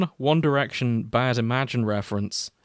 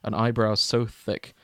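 mock-solemn fanfic reading, mostly at usual pitch; story narration. Podcast host reading a crack fic to cohosts, mock-solemn narration. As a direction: read the opening like a grave eulogy, tongue in cheek.

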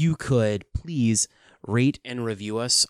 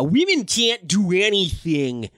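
higher, mock-indignant proclamation; hammed-up protest of helplessness; mock outcry; 5 semitones higher, 4 dB louder than usual. Mock repeat of the sexist claim.

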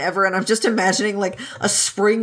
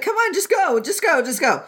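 shooing Wei Wuxian; 8 semitones higher than usual. Retold or imitated. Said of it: "And Wei Wuxian's like".

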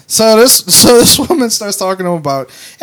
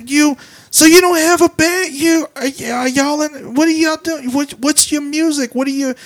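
mock drunk woman; 9 semitones higher than usual. Imitating the drunk woman quizzing them about a band. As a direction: pester like a drunk stranger. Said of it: "She's like".

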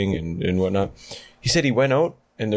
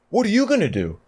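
mocking, high sneering voice, pitched up; hammed-up contempt, voice pitched way up; snotty rude thief; 9 semitones higher than usual. Mocking the rude cherry pickers.

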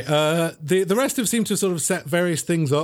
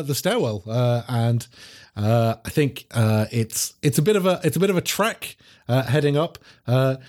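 ordinary talk

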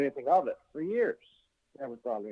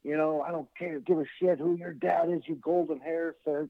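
raised, higher-pitched mock rage; a hammed-up angry manager; retold angry rant; 6 semitones higher than usual. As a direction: rant at Owen like a furious heel manager. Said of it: "he's pissed".

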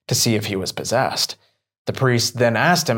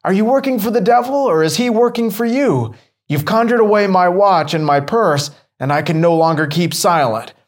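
indignant outburst; 6 semitones higher than usual. Acted. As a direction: rattle off the accusation, outraged. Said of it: "he cried indignantly".

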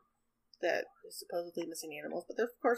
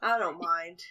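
put-on cheerful old-timer, a bit higher and louder; hearty old farmhand offering to help; lightly voiced friendly old man; Wilfred's voice; 3 semitones higher, 8 dB louder than usual. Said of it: "he goes".

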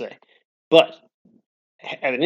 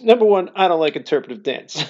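repeated with a touch more pitch and a laughing edge; retold sister; 4 semitones higher than usual. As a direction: play back the sister's blunt verdict with a lift. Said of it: "so she goes".

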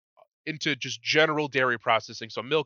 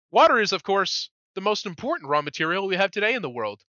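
first try at a French accent; 5 semitones higher than usual. Shown as a demonstration. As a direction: start a French accent, then restart. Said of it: "Wait, let me start over".

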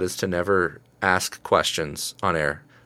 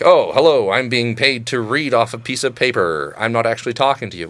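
lightly voiced, louder radio host reading a script; mock radio guy; 3 semitones higher, 4 dB louder than usual. Mocking radio hosts to a friend, mild mock announcer voice. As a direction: play a hint of a paid announcer. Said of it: "like, a radio guy".

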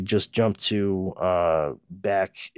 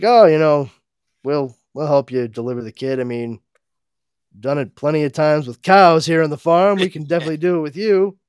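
folksy farm couple; 6 semitones higher, 7 dB louder, faster than usual. Retold or imitated. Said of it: "Jonathan and Martha are like".

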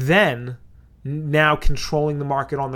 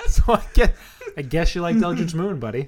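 laughing, higher-pitched ribbing; amused teasing; 5 semitones higher than usual. Real, not acted. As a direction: tease through a laugh, pitched up. Co-host teases through laughter.

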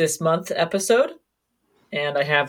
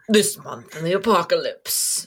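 movie trailer voice; 3 semitones higher than usual. Shown as a demonstration. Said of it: "There we go".

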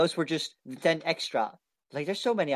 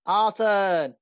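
loud, high, drawn-out rallying cry; gleeful cheer; 5 semitones higher, 5 dB louder than usual. Pretend. Player cheering the party's plan to burn it down, gleeful cheer. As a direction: cheer it out with relish. Mock battle cry for arson.

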